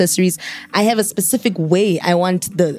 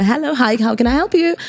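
lightly voiced helpful receptionist, pitched up; higher sing-out phone hello; Momo's phone greeting; 5 semitones higher than usual. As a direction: offer help in a higher voice.

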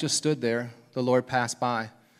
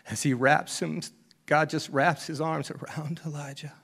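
tender; 3 semitones higher than usual. Real, not acted. Tender image of God's embrace.

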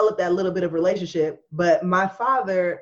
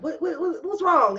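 imitating aggressive dad; 8 semitones higher than usual. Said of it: "he used to be like".

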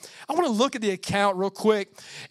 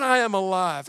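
I am alive said out firmly, a bit louder, stress on I; declared; 3 dB louder than usual. Shown as a demonstration. Pastor repeating Jesus' words to the church, firmly declared. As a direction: proclaim I am alive plainly and strong. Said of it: "he said it like this".

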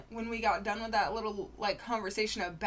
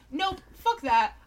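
emphatic refusal; 6 dB louder than usual. Retold or imitated. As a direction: slam the door on it. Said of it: "I would be the person to be like".

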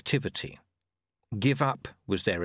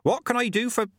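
Ogg; 13 semitones higher, 4 dB louder than usual. A narrator's reading. Ogg speaks.

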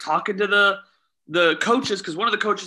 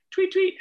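imitated referee whistle; 14 semitones higher than usual. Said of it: "If I blow the whistle".

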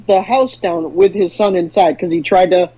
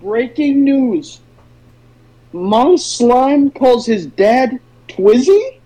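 news anchor; much slower than usual. Acted. Mock news podcast intro.

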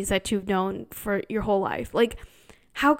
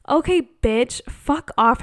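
louder, snapped-off mock telling-off; mock retort; 3 semitones higher, 5 dB louder than usual. Pushing back at a nosy auntie, loud mock anger. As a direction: tell her off, half-joking.

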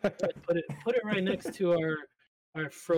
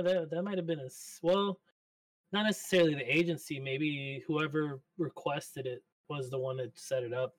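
fishbowl; 2 semitones lower than usual. Real, not acted. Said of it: "Why do you sound like you're in a fishbowl?".

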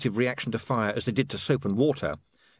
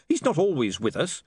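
snapped; 4 semitones higher than usual. Acted. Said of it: "snapped William".

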